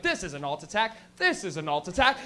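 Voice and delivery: lightly put-on low announcer voice; low, measured mock show intro. Art show intro announces itself, low announcer voice. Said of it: "show something and be like".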